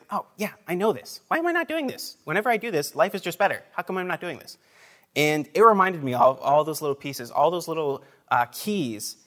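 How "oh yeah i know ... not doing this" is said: sudden lift to a much higher pitch, eager self-questioning; inner realization voice. Retold or imitated. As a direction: act out the thought that hits you in a flash. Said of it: "it's like".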